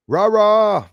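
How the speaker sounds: high, loud chant of rah rah; cheering. Real, not acted. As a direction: cheer it out like a rally. Reading viewer's cheer aloud.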